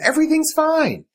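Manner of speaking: sing-song as if nothing's wrong; eerie child calm. Retold or imitated. Quoting Lizzie's eerie calm.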